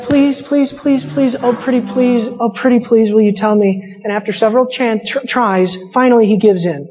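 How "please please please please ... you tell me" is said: mock pleading Delilah. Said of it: "Delilah's like".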